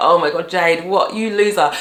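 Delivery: ordinary delivery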